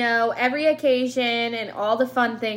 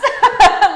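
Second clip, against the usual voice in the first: loud burst of laughter; 10 semitones higher, 16 dB louder than usual. Real, not acted. Burst of laughter at own joke.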